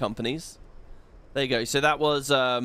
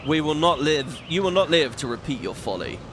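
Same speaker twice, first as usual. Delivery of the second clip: Garuda voice. Acted. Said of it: "It's Garuda".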